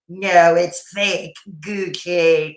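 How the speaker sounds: slow, drawn-out, dismissive "No, it's fake Gucci"; lightly mocking sneer; scornful correction. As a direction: drag it out with contempt.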